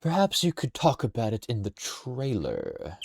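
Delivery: lightly voiced, drawling game character; trial character voice. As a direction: test a new voice, stretching the last word. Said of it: "No, I don't like that voice".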